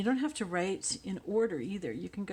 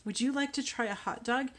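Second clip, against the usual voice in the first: teacher voice; 5 semitones higher than usual. Retold or imitated. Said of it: "I say".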